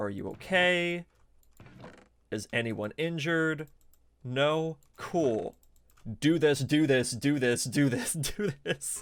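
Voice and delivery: very calm, steady, unflustered fatherly voice. Retelling what her dad said over the phone: imitating a dad speaking very calmly. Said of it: "her dad's like very calmly".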